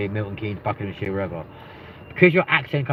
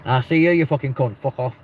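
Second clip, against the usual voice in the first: northern banter; 4 semitones higher, 4 dB louder than usual. Shown as a demonstration. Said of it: "It sounds a lot nicer".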